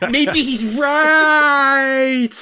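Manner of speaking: high drawn-out yell; screamed. Acted. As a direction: scream it out slowly. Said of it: "when I screamed".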